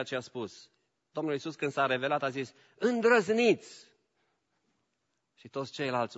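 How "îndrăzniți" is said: slow, commanding take courage; voicing Jesus. Jesus urging the disciples, slow and bold. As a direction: call it out slowly with authority.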